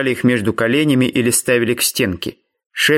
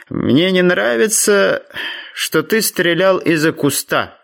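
slow, higher-pitched, mildly reproachful father; gentle scolding; 6 semitones higher, slower than usual. A narrator's reading. Father reproving his son for the ambush, gently scolding. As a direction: chide him fondly, drawing the words out. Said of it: "довольно ласково выбранил он Бака".

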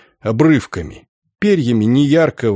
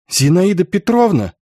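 calling out; 6 semitones higher than usual. Acted. Girl calls out to woman.

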